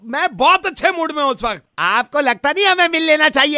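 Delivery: insistent, argumentative protest; rude tone. Acted. Suitor presses the woman to meet, sounding rude. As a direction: deny rudeness in a rude tone. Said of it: "आप इतना rude क्यों हो".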